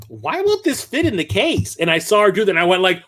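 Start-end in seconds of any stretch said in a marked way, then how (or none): 0.1-1.8 clueless cashier. Retold or imitated. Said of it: "is sitting there going like".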